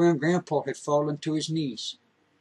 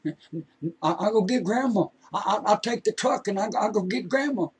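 frantic hollering; 5 semitones higher than usual. Acted. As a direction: holler it in panic. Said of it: "And he's hollering".

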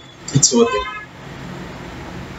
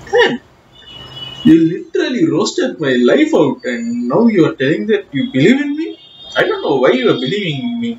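exasperated outburst; 4 semitones higher than usual. Retold or imitated. Exasperated rant at father.

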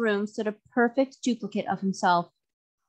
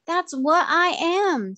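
higher, louder, slow hasty reply; 9 semitones higher, 4 dB louder, slower than usual. A narrator's reading. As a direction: rush to insist he is human. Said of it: "said Cap'n Bill hastily".

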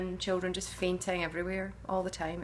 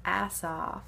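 American accent. Shown as a demonstration. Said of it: "excuse my terrible American accent".

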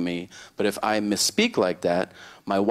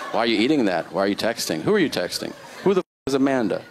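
lightly voiced nagging wife, question after question; interrogating wife; faster than usual. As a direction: fire off mock questions like a suspicious spouse. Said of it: "I have a very question-oriented household".

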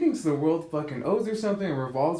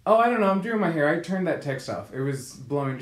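mocking dismissive friend. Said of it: "the girl goes".

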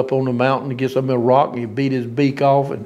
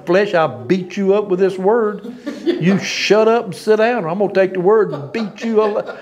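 higher, laughing mock threat to his own flesh; laughing scolding; 6 semitones higher than usual. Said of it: "I tell myself all the time".

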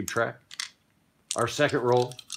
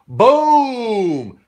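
shouted boom, much higher and louder; booming impact; 11 semitones higher, 10 dB louder than usual. Acted. Game master voicing the knockout punch, big shouted boom. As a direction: slam the impact out like a comic sound effect. Punch lands in fight narration.

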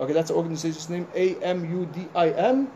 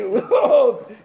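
loud laugh; 5 semitones higher, 6 dB louder than usual. Real, not acted. Laughs after mock shout.

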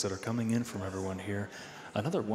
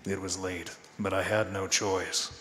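noir detective; 3 semitones lower than usual. Pretend. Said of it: "read this next part in your best noir voice".

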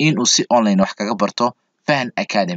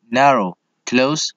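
slow review; much slower than usual. Shown as a demonstration. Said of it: "Rich, poor".

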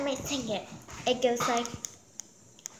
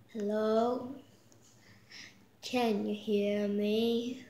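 other voice; 5 semitones lower, 4 dB quieter than usual. Pretend. Kid showing her second new voice, lower and soft. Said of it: "here's my other voice".

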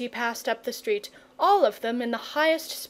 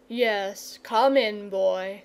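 kind saint; much slower than usual. Acted. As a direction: kindly invite the boy in. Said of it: "said the saint kindly".

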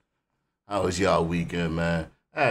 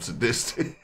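laughing; 5 dB quieter than usual. Real, not acted. Laughing at the lyric.

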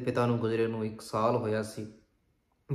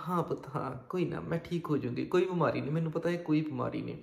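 mild, subdued agreement; lightly acted submissive mother; meek, placating; 3 semitones higher than usual. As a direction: give in to calm an angry son. Mother placates her shouting son.

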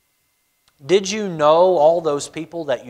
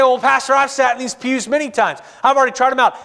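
a raised, lightly voiced churchgoer objecting; higher mock congregant; 7 semitones higher, faster than usual. A churchgoer answers the pastor in a raised voice. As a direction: play the member pushing back, a bit higher.

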